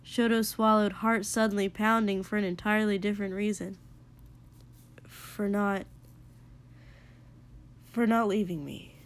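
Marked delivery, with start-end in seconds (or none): 5.0-9.0 soft, hesitant thanks; quiet. A narrator's reading. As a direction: say it softly, halting. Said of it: "Shoto said quietly".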